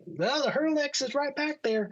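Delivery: very high pilot voice; pilot impression. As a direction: imitate the pilot, pitched far above your own. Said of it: "that's how he talked".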